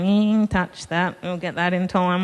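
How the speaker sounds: drawn-out, a little amused impression of the guy; imitating the healer.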